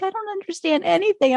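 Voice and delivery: high-pitched mock confusion; imitating bewildered mom. Daughter quotes mom lost in British TV, high bewildered imitation. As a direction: voice a baffled mom, pitched well up.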